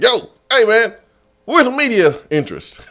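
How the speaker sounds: high excited call across the stadium; Buck calling out. Retold or imitated.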